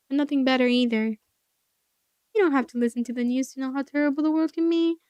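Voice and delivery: loud, fed-up complaining; projected, exasperated grumbling; exasperated rant. Acted. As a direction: rail against the tedious news. Character rants about boring human news.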